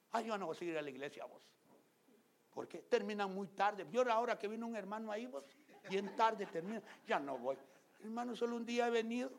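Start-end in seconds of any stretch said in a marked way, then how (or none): 0.1-1.4 fast, whiny complaint; hammed-up complaining believer; mock whiny churchgoer. Church member complaining, mocked. 2.8-9.3 high, loud whine; hammed-up high complaining voice; mock whining complainer. Mocking complainer about late services.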